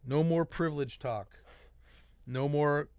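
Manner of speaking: measured reading of a manifesto; letter read aloud. Acted. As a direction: read the open letter point by point.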